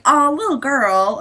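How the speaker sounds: mildly patronizing coo; mock-sweet condescension; condescending. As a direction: talk down as if to a small child. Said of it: "It's so condescending".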